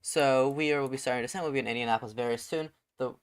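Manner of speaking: airline captain PA voice; captain announcement. Pretend. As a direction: address the cabin like a pilot. Pilot making passenger announcement.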